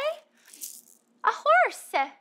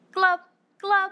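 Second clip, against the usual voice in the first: fish glub; 3 dB louder than usual. Shown as a demonstration. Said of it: "What kind of sound could we make for the fish?".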